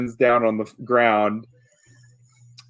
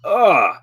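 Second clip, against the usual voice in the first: loud disgusted ugh; grossed out; disgusted groan; 5 semitones higher, 5 dB louder than usual. Acted. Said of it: "he says like that".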